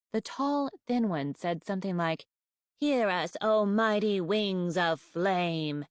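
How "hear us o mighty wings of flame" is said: slow, haughty ceremonial chant; lofty and slow, looking down her nose; snooty voice. Acted. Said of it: "in her snooty voice".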